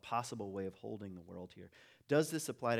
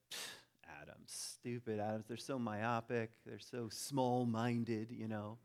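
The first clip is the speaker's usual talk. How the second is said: mocking molecules; slower than usual. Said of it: "that molecules start mocking".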